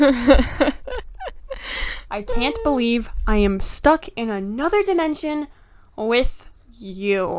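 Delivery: a hint of a fed-up companion grumbling; Juby voice. Companion Juby grumbles at Sophie, lightly voiced and exasperated. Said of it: "I've been trying to do voices".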